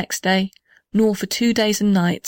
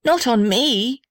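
high, alarmed protest; alarmed cry; 4 semitones higher, slower than usual. Acted. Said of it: "cried the little house".

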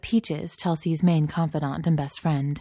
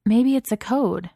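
suggesting; 7 semitones higher, 4 dB louder than usual. Acted. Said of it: "Bella suggested".

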